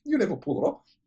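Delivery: high mock woman's protest. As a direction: squeak it out like the journalist. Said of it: "She goes".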